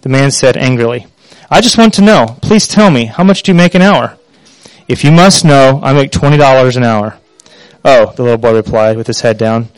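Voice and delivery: reading a parable to the congregation, lightly voicing the father and son; a pastor reading a story aloud. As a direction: tell it gently as a sermon story.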